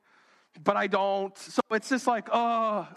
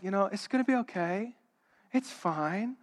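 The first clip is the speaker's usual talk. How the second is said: mock Zen calm; 3 dB quieter than usual. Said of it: "When did you turn into a Zen guru".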